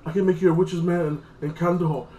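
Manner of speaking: a light mock plea, not full earnest; hint of a desperate prisoner begging; imitating pleading. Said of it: "begging like a little bitch and pleading".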